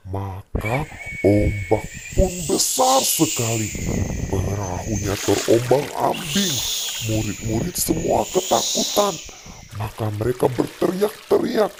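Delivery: put-on gentle storytelling voice for a child; bedtime story narration. Father tells Bible story at bedtime.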